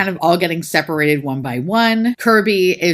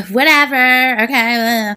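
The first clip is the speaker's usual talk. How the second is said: mock dismissive; 7 semitones higher, 5 dB louder, slower than usual. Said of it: "So they're like".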